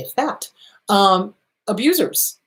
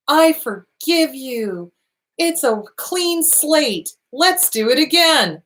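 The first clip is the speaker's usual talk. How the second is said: slow, higher, sugary pushover voice; mock naive forgiveness; 6 semitones higher, slower than usual. Host mimicking a naive victim forgiving an abuser, slow mock sweetness. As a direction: play the doormat who forgives everything, drawn out.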